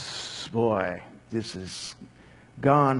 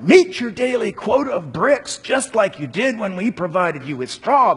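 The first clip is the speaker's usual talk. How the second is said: raised, commanding voice of slave drivers; demanding; 8 semitones higher, 5 dB louder than usual. Acted. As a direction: bark the order at the workers. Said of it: "they demanded".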